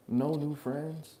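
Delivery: hammed-up third grader; slow childish mock. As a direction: drag it out like a dumb little kid. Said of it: "heard that from his third grade".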